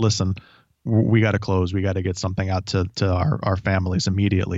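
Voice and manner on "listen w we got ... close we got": plain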